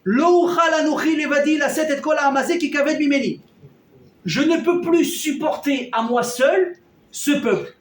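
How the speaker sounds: plus fort et plus aigu, lent; Moïse crie vers Dieu, à bout; cri désespéré. Retold or imitated. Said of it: "il va hurler à Hachem". (Moïse implore Hachem en criant, plus fort et plus aigu)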